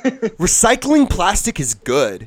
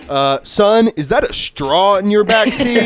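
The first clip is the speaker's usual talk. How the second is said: mock cop; 5 semitones higher, 4 dB louder than usual. Cop voiced in straw skit.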